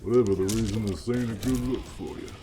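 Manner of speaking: a hint of an old Western cowboy. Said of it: "more like a old cowboy".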